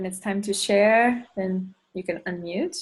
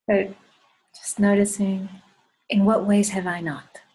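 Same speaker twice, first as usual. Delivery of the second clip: guided meditation. Acted. Leader asks the group in what ways they have not, guided meditation. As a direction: pose the question and leave room to ponder it.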